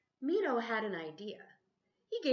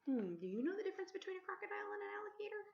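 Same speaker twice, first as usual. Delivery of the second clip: whispered aside; 12 semitones higher, 4 dB quieter, much faster than usual. Real, not acted. Reader whispering a quiz to the child beside her. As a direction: lean in and whisper the question quickly.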